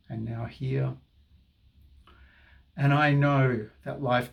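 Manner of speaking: soothing tapping guide; guided affirmation. Acted. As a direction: speak each phrase as a calming mantra.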